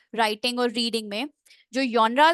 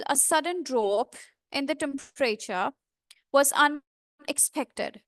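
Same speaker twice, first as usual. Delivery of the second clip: slow, careful example sentence with small breaks; slow demo reading; 3 semitones higher, much slower than usual. Shown as a demonstration. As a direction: read it slowly, pausing on weak vowels. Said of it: "So for example". (धीमा, रुक-रुक कर उदाहरण पढ़ना)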